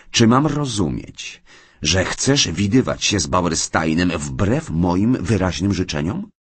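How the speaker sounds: a measured, menacing demand. Acted. John angrily confronts Mary.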